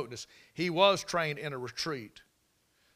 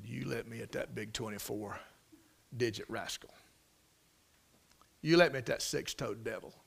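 outraged; 5 semitones lower, 5 dB quieter than usual. Retold or imitated. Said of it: "He was outraged".

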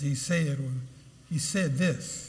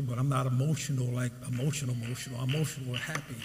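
softening aside; 5 semitones lower, 6 dB quieter, faster than usual. Real, not acted.

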